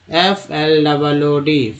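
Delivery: slow letter-by-letter spelling; name each letter slowly; spelled out letter by letter. Shown as a demonstration. Teacher spelling flood for students, slowly letter by letter. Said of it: "फ्लड में".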